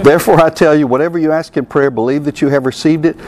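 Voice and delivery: light West Texas accent imitating Kenneth Hagin. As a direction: read the verse in a mild West Texas accent. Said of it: "You gotta say it with a real West Texas accent, though, to imitate Hagin".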